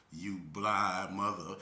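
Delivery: slow, offhand deadpan; nonchalant. Retold or imitated. Friend Kippy in the car, slow and deadpan. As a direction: toss it off like nothing. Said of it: "very nonchalantly and go".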